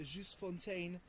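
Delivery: Just Fontaine said slowly in a full French accent. Real, not acted. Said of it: "I don't know why I said it with such an accent".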